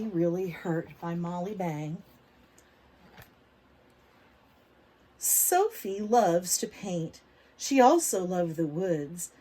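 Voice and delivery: put-on reading to children. A narrator's reading. Teacher reading a picture book aloud to kids. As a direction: lively, clear storybook reading for little ones.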